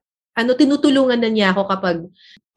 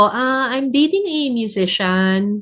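slow announcement; 3 dB quieter, slower than usual. Retold or imitated. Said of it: "sabi ko".

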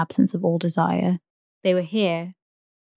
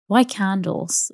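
objecting; 2 semitones higher, slower than usual. Acted. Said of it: "objected Daisy, frowning".

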